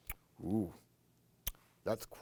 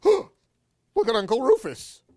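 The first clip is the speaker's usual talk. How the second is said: amazed; 11 semitones higher, 11 dB louder than usual. Real, not acted. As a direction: gasp then louder, higher exclamation. Gasp at reveal.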